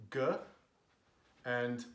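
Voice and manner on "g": G voiced alone as "guh"; hard G sound. Shown as a demonstration. Teaching what G can be, hard sound. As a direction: say G as the hard g of goose. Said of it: "So G can be".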